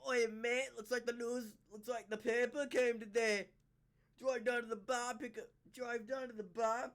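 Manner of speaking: chatty mock Scottish; amateur go at a Scottish accent; attempted Scottish accent. Shown as a demonstration. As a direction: ramble along in a put-on Scottish accent. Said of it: "so I'm trying".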